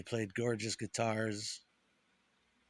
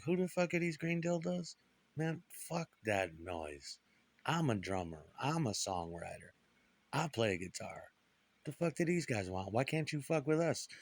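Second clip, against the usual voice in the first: A rock musician; 3 semitones higher than usual. Retold or imitated. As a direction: protest in a put-on voice, slowing for the dismissal. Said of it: "he's like".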